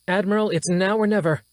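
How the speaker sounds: high, urgent, strained officer voice; alarmed officer. Acted. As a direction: report the damage in a rising panic. Officer pressing the admiral.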